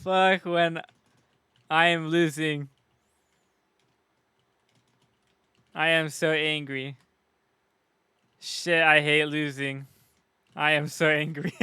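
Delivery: halting, deliberate parody of an angry gamer; mock spoken-word poem. Streamer mimicking an angry gamer's clip, mock spoken-word poet. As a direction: recite the rant like poetry, with long pauses. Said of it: "like some spoken word poem".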